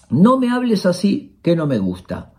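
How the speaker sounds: calm and firm, no shouting; direct limit. Shown as a demonstration. Coach demonstrating a boundary to a verbal abuser, calm firm limit. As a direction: set a boundary plainly. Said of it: "El límite directo, sin gritar, sin hablar bajo".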